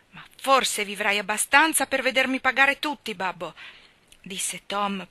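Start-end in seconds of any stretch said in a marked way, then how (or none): 0.1-3.5 with great effort. A narrator's reading. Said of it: "parlando con grande sforzo".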